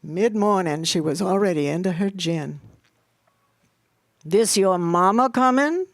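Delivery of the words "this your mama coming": disapproving, a little louder; frowning question. A narrator's reading. Missus Judith Rose asks the girl about her mama, frowning. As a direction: ask it through a frown. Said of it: "asked with a frown".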